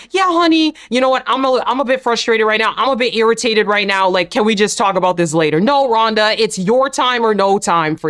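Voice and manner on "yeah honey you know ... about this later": sweet, reasonable husband. Retold or imitated. Mocking a husband asking Rhonda to pause, sweetly. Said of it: "In what world would you take it if Pat said".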